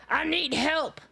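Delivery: cracking up, mock cry for help; laughing plea for help. Real, not acted. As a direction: beg for help while laughing. Laughing at floating cat.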